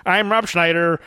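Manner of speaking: high stammering mock panic, hammed-up; mock terrified Rob Schneider. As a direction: stutter out a badly faked fear. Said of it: "you're supposed to be scared to death".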